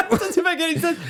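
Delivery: said through laughter; laughing. Real, not acted. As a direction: laugh while you say it. Laughing at partner's joke.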